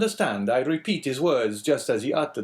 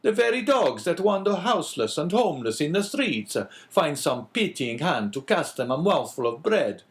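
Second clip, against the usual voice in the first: higher, louder, indignant outburst; outraged protest; 8 semitones higher, 4 dB louder than usual. A narrator's reading. Priest horrified at the old man's death, indignant. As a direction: rail against the cruelty of it. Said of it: "springing from his seat".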